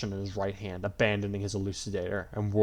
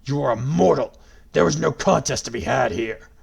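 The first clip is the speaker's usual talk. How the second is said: booming, mocking god voice; gloating villain; 3 semitones higher, 8 dB louder than usual. A narrator's reading. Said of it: "Grima laughed".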